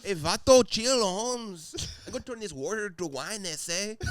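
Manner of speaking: high, hammed-up cholo voice. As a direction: play Jesus as a cholo. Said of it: "Jesus is just a cholo".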